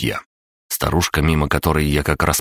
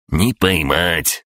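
unruffled; 2 semitones higher, much slower than usual. A narrator's reading. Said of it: "невозмутимо отбрил крабогном".

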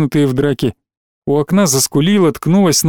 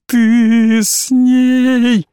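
high, stretched wail, very slow; keen the words out; howling accusation; 8 semitones higher, much slower than usual. A narrator's reading. Alina accusing Igor, still howling. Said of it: "провыла Алина".

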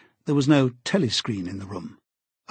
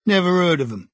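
curt; 6 semitones higher, 4 dB louder than usual. A narrator's reading. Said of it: "said the barman shortly".

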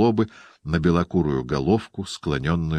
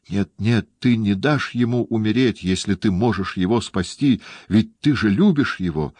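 crying out; 5 semitones higher than usual. A narrator's reading. Girl begs her friend not to let him die, crying out. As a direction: plead with rising urgency. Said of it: "вскричала Люсиль".

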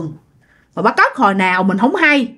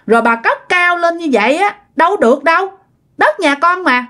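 higher-pitched, aggrieved complaint to a neighbour; indignant protest; 5 semitones higher than usual. Retold or imitated. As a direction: retell an indignant confrontation, pitch climbing. Neighbour protests over built-on land.

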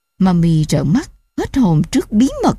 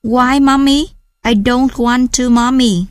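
put-on whiny child; 4 semitones higher, slower than usual. Child whining against Vietnamese.

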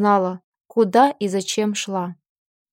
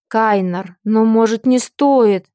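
hesitant; 4 dB louder, slower than usual. Acted. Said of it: "неуверенно подал голос Фил".

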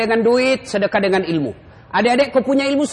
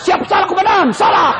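much higher and louder frantic apology; panicked policeman; 10 semitones higher, 4 dB louder than usual. Retold or imitated. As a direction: shout the apology as the commander yells. Policeman answering his commander.

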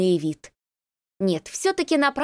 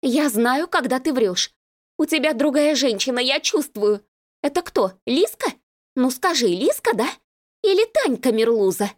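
higher, accusing female voice; a jealous girlfriend interrogating him; jealous woman; 5 semitones higher than usual. Acted. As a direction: press him with jealous guesses.

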